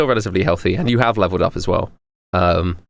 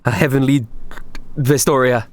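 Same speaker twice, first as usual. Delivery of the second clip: groveling worshipper; 4 semitones higher than usual. Acted. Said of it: "Pomo's, like, groveling on her knees".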